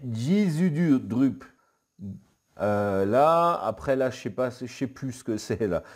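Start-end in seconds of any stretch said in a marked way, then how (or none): 0.1-1.4 slow mock Klingon word, louder; Klingon accent. Youtuber reading Klingon aloud, mock Klingon accent. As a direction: spit out "Jizudrup" slowly in a Klingon accent. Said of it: "avec l'accent".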